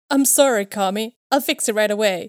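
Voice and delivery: mildly nervous apology; a hint of a jittery manager saying sorry.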